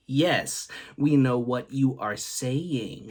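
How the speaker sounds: slow, deliberate mock-patient reply; pointed over-enunciation. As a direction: spell it out slowly, word by word. Weary retort to boss's dialect.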